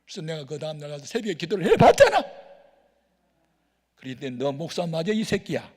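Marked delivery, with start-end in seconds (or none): 4.4-5.7 loud, higher rebuke; the Spirit rebuking the pastor, loud and scornful; scolding Holy Spirit. Retold or imitated. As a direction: scold him like a stern voice from above. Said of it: "막 그런 것 같아, 성령님이".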